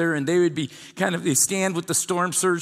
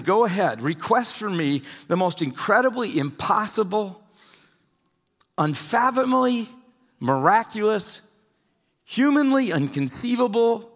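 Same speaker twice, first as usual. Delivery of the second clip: higher-pitched, building emphasis on each extravagant phrase; emphatic urging; 3 semitones higher than usual. Retold or imitated. Preacher voicing God daring Ahaz to ask, emphatic urging. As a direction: pile up the impossibilities, urging him on.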